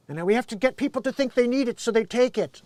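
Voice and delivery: lightly voiced villain scheming; a hint of a plotting movie villain; mild mock-sinister villain voice; Doctor Evil. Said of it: "in a comedic manner as Doctor Evil".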